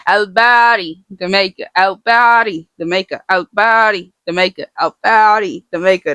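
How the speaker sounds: chant-like rote repetition for learning; memorization drill. Shown as a demonstration. Teacher resumes repeating the name for learners, emphatic rote drill. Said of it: "We try to repeat it to help us learn it".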